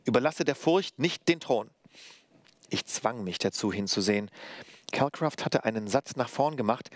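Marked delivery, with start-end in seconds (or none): 0.0-1.7 master's voice. A narrator's reading. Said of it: "hörte ich die Stimme meines Meisters".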